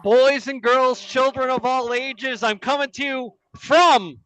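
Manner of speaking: lightly voiced circus ringmaster. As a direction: announce it like a big-top ringmaster. Circus style opener.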